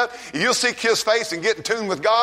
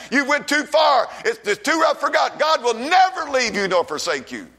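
raised, pressing sermon voice; fired-up revival preacher; fervent preaching; 3 semitones higher than usual. Acted. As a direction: drive the promise home to the room. Preaching to congregation.

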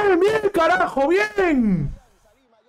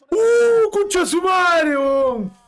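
frustrated shout; 5 semitones higher, much slower than usual. Real, not acted. Near miss, fan erupts.

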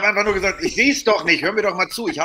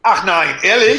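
gespielt überrascht; 4 semitones higher, 5 dB louder, slower than usual. Real, not acted. Mock surprise at verdict.

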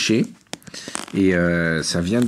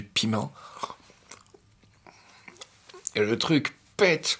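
talking while chewing meat; spicy food, grimacing; mouth full, chewing; 5 dB quieter, slower than usual. Real, not acted. Seen 1: bites piece at 2.9, then chews and grimaces from spiciness.

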